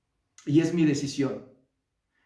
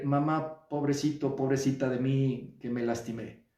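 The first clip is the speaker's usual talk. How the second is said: put-on self-pitying child; 4 semitones lower, 4 dB quieter than usual. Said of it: "puedes ir con mamá a decirle".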